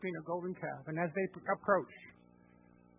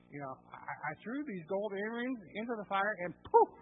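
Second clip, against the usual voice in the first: laughing, high and louder, playing innocent; laughing mock innocence; 5 semitones higher, 4 dB louder than usual. Aaron making excuses to Moses, laughing innocence. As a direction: fake surprised giggle over a lame excuse. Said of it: "and he says".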